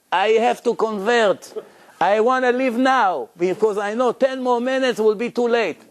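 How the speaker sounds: half-hearted imitation of an outraged Arab man; retold scream. Arab man at the lecture scolding the Jews, mock yell. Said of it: "he started to scream".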